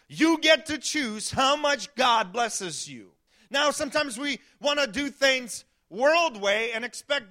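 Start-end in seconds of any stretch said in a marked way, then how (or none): 0.1-3.1 emphatic shout. Real, not acted. Pastor repeats key line, emphasised.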